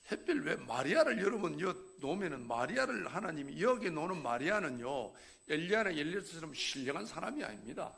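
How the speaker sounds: normal talking voice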